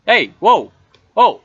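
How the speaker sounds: high, challenging weasel; swaggering weasel looking for trouble; weaselly voice. Acted. Weasel squaring up to a heckler, challenging weasel voice. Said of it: "It's a weaselly voice".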